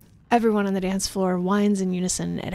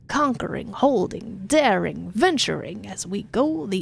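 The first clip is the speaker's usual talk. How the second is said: hammed-up verse from the governor; pompous poem reading; 3 semitones higher, slower than usual. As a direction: declaim it grandly. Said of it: "reads from his hollow palm".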